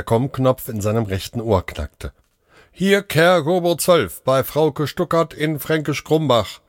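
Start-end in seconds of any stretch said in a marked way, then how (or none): 2.7-6.6 robot voice. A narrator's reading. Care robot reporting to the doctor, mechanical voice. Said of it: "meldete eine Roboterstimme".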